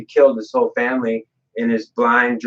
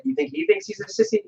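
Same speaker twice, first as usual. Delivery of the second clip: much higher and softer, teasing; mock sissy voice; 6 dB quieter than usual. Lucifer's critic mocked in a high falsetto. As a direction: scoff at the idea in a silly high voice. Mocking Lucifer's supposed worry.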